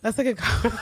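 high, squealing laugh cutting off speech; helpless laughter. Real, not acted. Co-host cracking up at sausage joke, laughing helplessly. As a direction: crack up before the sentence is finished. Breaks up laughing mid-remark.

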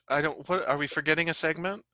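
normal talking voice

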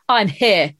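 put-on broad British soap-opera accent; thick British accent. Friend imagining her walking into a soap pub, thick British accent. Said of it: "really thick British accent".

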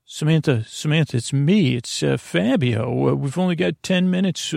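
a lightly voiced, hurried rescuer; urgent Fabio. Fabio urging Samantha to flee, lightly hurried. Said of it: "as Fabio".

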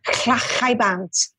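"clachaibant" slowly, with throaty Welsh ch; Welsh pronunciation. Shown as a demonstration. Teaching hosts to swear in Welsh, "clachaibant" said the Welsh way. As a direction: model "clachaibant" with scraped Welsh consonants. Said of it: "in Welsh, this is different".

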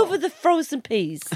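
language-tape narrator. Pretend. Continues mock language-course narration.

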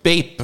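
buzzer beep. Acted. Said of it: "you have to".

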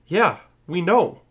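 loud, slow, drawn-out sarcasm; exasperated retort. Retold or imitated. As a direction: drag it out high and loud, fed up. Mock exasperated answer to the film.

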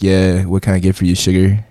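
lightly voiced frat bro; fratty bro. Shown as a demonstration. Coaching a friend at the bar, light frat-bro manner. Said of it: "say it, like, in a frat way".

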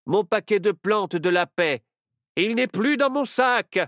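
the sorcerer discovering his pouch is gone; crying out. Acted. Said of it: "Le sorcier s'écria". (le sorcier s'écrie, alarmé et fort)

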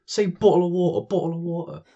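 high-pitched kid imitation; mimicking teasing kids. Kids making fun of his accent, mimicked in a high voice. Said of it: "They'd be saying".

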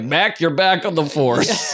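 high, slow and laughing; laughing mock cop. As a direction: giggle through the line. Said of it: "And then they're like".

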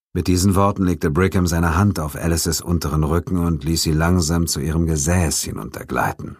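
plain reading voice

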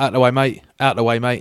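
loud gruff pushy lads; rowdy lads barking. Retold or imitated. Lads shoving through a busy bar, loud and rough. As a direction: shove through a crowded bar, mock rough. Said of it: "they're quite like".

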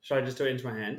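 hushed voice; quiet at night. Real, not acted. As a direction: keep it down for a sleeper. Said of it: "I don't wanna wake him".

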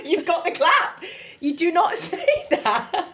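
high, slow, laughing echo; laughing repeat. Real, not acted. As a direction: repeat it cracking up.

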